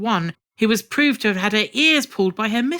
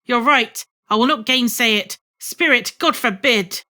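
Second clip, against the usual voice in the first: emphatic; 3 semitones higher, 3 dB louder than usual. Acted. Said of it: "cried Scrooge".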